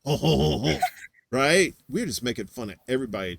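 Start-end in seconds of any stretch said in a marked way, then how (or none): 0.0-0.8 mock French laugh. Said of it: "now the French".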